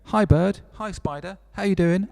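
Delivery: cartoon character greeting. Bird and spider meeting, voiced in a high cartoon voice. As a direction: squeak it out like a friendly little animal. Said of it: "And then they go".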